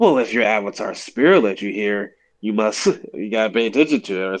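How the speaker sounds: snarky, sarcastic, don't-care dismissive tone. Speaker describing a show scene, imitating Toph's sarcastic tone. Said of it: "she says it in a sarcastic tone".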